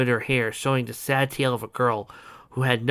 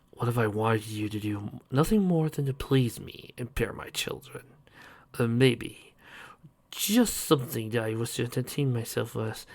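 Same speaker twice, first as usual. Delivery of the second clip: sinister man voice; 5 dB quieter than usual. Acted. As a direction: savour each threat. Captor voice.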